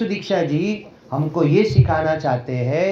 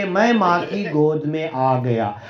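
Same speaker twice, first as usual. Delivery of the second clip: slow, settled and calm; slowly, as if finally safe; calm relief. Retold or imitated. Child back in mother's lap, slow and calm. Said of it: "शांतता बताएगी उसकी".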